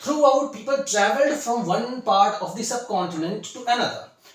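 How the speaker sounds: slow, careful read-aloud for students; slow textbook reading. Shown as a demonstration. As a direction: read each phrase slowly, like a model reading for a class. Teacher rereads the sentence.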